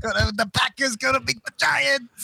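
put-on slow Chicago accent, football boast. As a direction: talk Packers in Chicago accent. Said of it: "Doing our Chicago accent".

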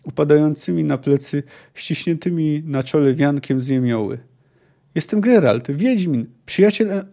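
fluent audiobook reading with acted dialogue; story narration. A narrator's reading. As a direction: read the novel aloud, voicing the quotes. Reads the novel aloud. (czytanie powieści na głos)

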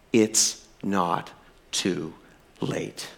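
fading to a breathless whisper; sinking from soft to whispered; hushed. Real, not acted. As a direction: let the last word vanish into a whisper. Quiet sermon climax.

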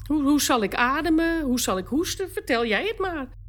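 high tearful voice, close to sobbing; wife asking her husband how she should breathe, crying; crying plea. Real, not acted. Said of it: "Ik zei wel eens".

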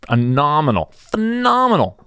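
high, swooning coffee praise; mock-gushing high voice. Gushing over his coffee.

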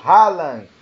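loud burst calling the scorer's name; excited shout. Real, not acted. Commentator calls scorer's name.

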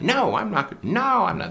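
put-on high, bratty toddler refusal; nasty toddler no. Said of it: "kids say no in that nasty voice".

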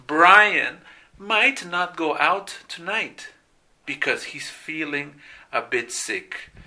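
Brian might not go out tonight read slowly, each word clear; slow model sentence. Shown as a demonstration. Teacher reading the model sentence slowly to the class. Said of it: "Uy, un poquito largo".

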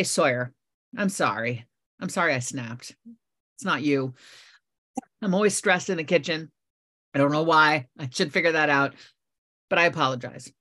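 calm, heartfelt sorry to her son; sincere apology. Retold or imitated. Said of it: "I take a deep breath".

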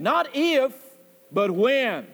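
pause, then drive home "when"; stress on when. Shown as a demonstration. Preacher to his congregation, stressing "when" over "if". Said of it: "I put the emphasis upon the word when".

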